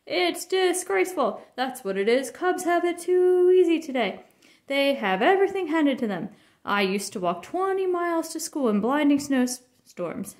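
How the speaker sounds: hammed-up grumpy dad lecture; mock lecturing Papa. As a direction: play the stuffy father preaching. Cub playing lecturing Papa.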